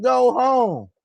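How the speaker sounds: high, stretched taunting call; mock taunt. Quoting Allen sending Barrett off, high mock taunt.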